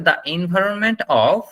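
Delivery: slow model phrase. Shown as a demonstration. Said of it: "যেটা হচ্ছে".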